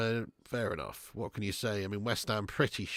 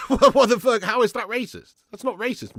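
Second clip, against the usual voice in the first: incredulous laugh; 11 semitones higher, 12 dB louder than usual. Real, not acted. Outraged at misreading a comment.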